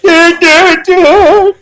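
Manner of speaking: high, loud mocking yeahs; cartoonish high yeah yeah yeah; mock high yelps. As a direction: squeal it out like a mocked victim. Mimicking hit person reaction.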